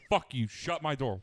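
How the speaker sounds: mildly annoyed, escalating demand; mock getting mad. Telling roommate in the doorway off, mock annoyed. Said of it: "and he gets mad".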